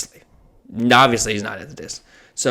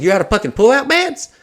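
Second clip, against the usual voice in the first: outraged disbelief; 10 semitones higher than usual. Retold or imitated. Arguing with the hotel clerk.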